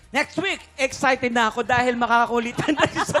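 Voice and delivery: talking with a mouthful; words round a bite of food; mouth full. Real, not acted. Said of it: "Lunukin mo muna".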